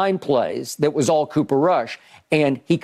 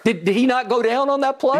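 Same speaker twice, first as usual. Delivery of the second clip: high, surprised disbelief; much higher, disbelieving; incredulous question; 8 semitones higher than usual. Real, not acted. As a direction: ask it like you can't believe it. Excited question to co-host.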